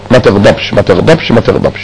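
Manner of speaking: gentle repeated warning. Retold or imitated. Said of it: "ثلاث مرات".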